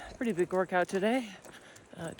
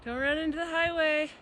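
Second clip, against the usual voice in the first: talking to a pet; 11 semitones higher than usual. Real, not acted. Talking to dog on walk.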